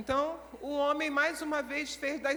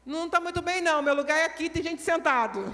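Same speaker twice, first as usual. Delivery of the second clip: grumpy; 4 semitones higher, 6 dB louder than usual. Acted. Grumpy sister refusing the seat.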